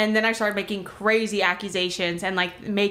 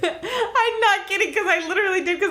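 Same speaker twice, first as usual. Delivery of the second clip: laughing; 10 semitones higher than usual. Real, not acted. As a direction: talk while cracking up. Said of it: "overdosed and died".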